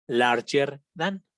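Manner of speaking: slow model for the class; slow model reading. Shown as a demonstration. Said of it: "teacher models the comparative".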